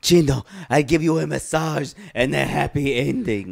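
lightly voiced girlfriend offering a massage; teasing girlfriend act. Girlfriend offering Gino a massage, teasing act. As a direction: act out a coaxing girlfriend, mildly hammed-up.

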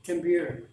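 computer with the t tapped like a d; flap T. Shown as a demonstration. Teacher answering his own question with a flapped T. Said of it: "how do you pronounce it?".

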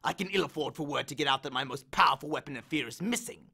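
lightly voiced bitter god; snarling. Hades snarls at Percy, mild bitterness. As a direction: grind out the grievance. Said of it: "Hades snarled".

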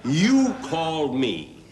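comic fake fury at the caller; angry. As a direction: tell him off, hammed-up indignation. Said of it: "I got real angry".

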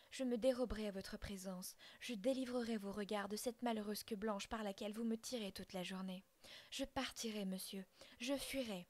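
tirade révoltée, plus forte; défie le père, blessée. Acted. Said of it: "révoltée de l'injustice de mon père". (l'enfant révoltée répond au père, plus fort)

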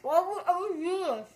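garbled through a mouthful; words round a dry mouthful. Real, not acted. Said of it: "never putting that many".

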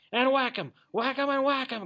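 high, loud, gleeful chant; ecstatic cry. A narrator's reading. Toad relishing the planned attack on weasels, ecstatic cry. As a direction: cry it out in mounting glee. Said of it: "cried the Toad in ecstasy".

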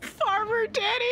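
high, slow put-on crooner voice; silly voice. Announcing the song title, silly high slow voice.

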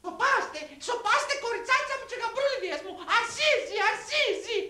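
high, put-on matriarch hushing; excited high comic mother-in-law. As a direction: shush the family in a high-pitched voice. Mother-in-law hushes the family.

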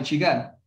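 "chigá" accented on its last syllable; stress on final syllable. Shown as a demonstration. Teacher confirming to student, final-syllable stress. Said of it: "sí lleva tilde".

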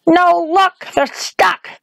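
put-on high-pitched, urgent girl; shouted. A narrator's reading. Girl insists the shoes are stuck, shouting. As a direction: cry out in frustrated protest. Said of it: "shouted the girl".

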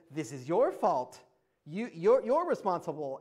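pin the blame on him, loudly; mock-angry finger-pointing voice; acted angry blame. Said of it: "angrily now to Abraham".

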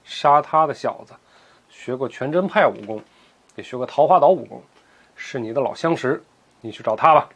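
low and icy, measured out; a master coolly pointing his rival elsewhere; cold. Acted. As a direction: lay it out coldly, no heat at all. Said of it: "黄药师冷冷地说".

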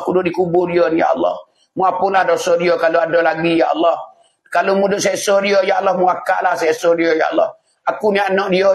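earnest, repeated pleading to God; acted child's prayer. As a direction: plead for dead parents at their grave. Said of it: "Dia pergi berdoa". (doa anak yang merayu)

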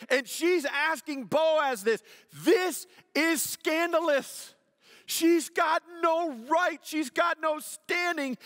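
high, loud preaching at full force; impassioned preaching. Real, not acted. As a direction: build to an urgent, emphatic cry from the pulpit.

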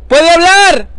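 loud, high holler; projected call for a response. Real, not acted. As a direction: shout the question across the river. Calling to woman lying in river.

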